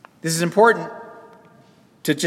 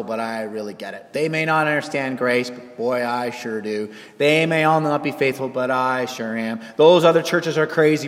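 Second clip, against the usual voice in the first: smug Christian; 5 dB louder than usual. Retold or imitated.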